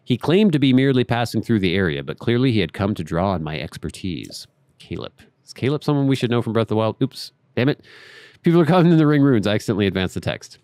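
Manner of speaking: measured, storybook read of the diary; reading a journal aloud. Acted. Gamer reading a character's journal to viewers, measured read. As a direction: read the old scholar's notes like a letter.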